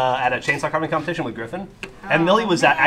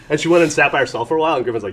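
usual speaking voice

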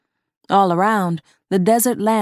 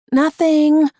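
high innocent denial; 9 semitones higher, 5 dB louder than usual. A narrator's reading. Quick denial to the boss.

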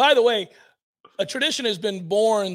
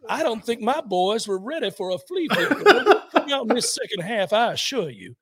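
mock Southern coach. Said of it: "Brian Kelly Southern accent".

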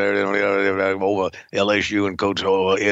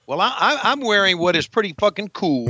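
put-on wrestler voice; 9 semitones higher, faster than usual. Defends outfit in character.

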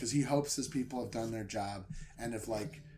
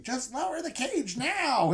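demanding; 12 semitones higher than usual. Retold or imitated. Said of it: "he starts demanding".

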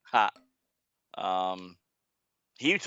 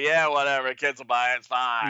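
Mort Weisinger; 3 semitones higher, 5 dB louder than usual. Retold or imitated. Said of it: "Mort Weisinger's like".

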